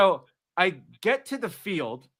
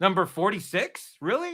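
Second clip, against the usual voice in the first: incredulous; 3 semitones higher than usual. Real, not acted. Incredulous reaction.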